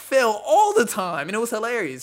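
laughing. Real, not acted. Laughing about Shaq falling.

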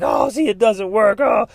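loud, high mock whine of defeat; mock defeated cry. Him after getting funny looks from strangers, mock defeated. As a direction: give up dramatically, half joking. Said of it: "I'm like".

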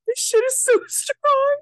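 tipsy, slurring a little. Real, not acted. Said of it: "I'm so drunk right now".

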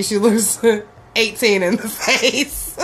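words breaking into laughter; laughing. Real, not acted. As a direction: crack up as you finish. Laughs at a picture she describes.

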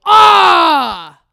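loud, high angry shout; angry yell. Retold or imitated. Wife imitating husband losing at Monopoly: loud angry yell. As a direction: roar in frustration at losing. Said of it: "and you'd go".

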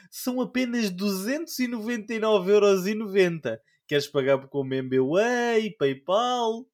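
overly polite salesman voice; sales pop-up voice. Retold or imitated. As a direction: sweet-talk him into paying. Voicing a Microsoft pop-up.

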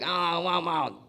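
Waterboy mumble. Retold or imitated. Girl's dad as he sounded, Waterboy imitation. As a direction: imitate garbled Waterboy speech. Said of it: "have you seen Waterboy".

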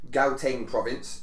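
a South African accent on "Gauteng province", said slowly. Shown as a demonstration. South African accent while naming a province on a podcast. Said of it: "forgive me for my South African pronunciation".

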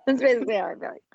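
fast, breathy whispered confession; whispered aside. Real, not acted. Host confessing to co-host, fast whisper. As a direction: whisper it like a secret.

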